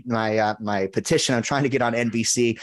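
high, eager pitch to strangers in a mall; chirpy sales patter, laying it on thick; pushy salesman pitch. Retold or imitated. Pitching strangers a fake dog petition, high and eager. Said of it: "going up to strangers and be like".

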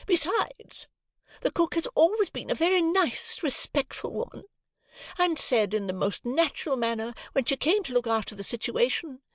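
shrill, indignant lady of the house; high, offended and superior; haughty high lady. A narrator's reading. Missus Pocket self-pitying.

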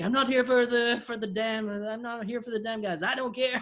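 high-pitched put-on clown voice; mock clown protest. Podcaster as clown answering hillbillies, high protesting voice. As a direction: plead your case as a silly clown.

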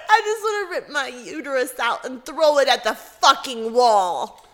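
laughing through the quote; laughing as she repeats the coworker; quoting while laughing. Retold or imitated. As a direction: giggle out the quote. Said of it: "But the way she said it".

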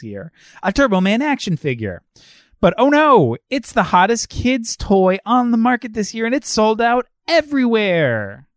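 trailer-style story narration; plot summary read. Acted. Podcast host reads the holiday movie's plot to listeners, dramatic narration.

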